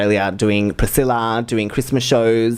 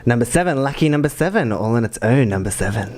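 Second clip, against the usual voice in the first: bingo caller. Shown as a demonstration. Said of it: "I'll give you a bingo test then".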